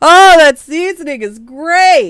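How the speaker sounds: fake-enthusiastic sarcasm. Repeating the other speaker's fake praise of vegetables as a mocking sarcastic imitation. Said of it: "that's so it's sarcastic".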